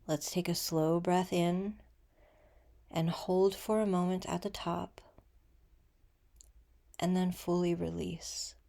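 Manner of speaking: gentle meditation guide, unhurried with long pauses; guided meditation. Acted.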